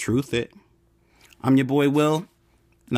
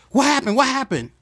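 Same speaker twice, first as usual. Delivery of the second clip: higher, urgent repeated question; alarmed; 9 semitones higher than usual. Retold or imitated. Husband running in after hearing screams, alarmed. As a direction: rush in fearing the worst. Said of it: "And you run in the room like".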